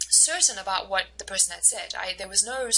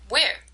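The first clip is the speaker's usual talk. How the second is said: "Where" rises high, then falls, asking for more detail; rising-falling intonation; 4 semitones higher, 5 dB louder than usual. Shown as a demonstration. Teacher models asking for more information, rising-falling intonation on "Where". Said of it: "using a rising, falling intonation".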